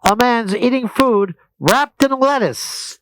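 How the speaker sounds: loud, grandly paced proclamation; mock announcer. Host mocks the restaurant announcement, loud announcer voice. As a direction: announce it big, stretching the last words. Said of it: "more of an announcement like this".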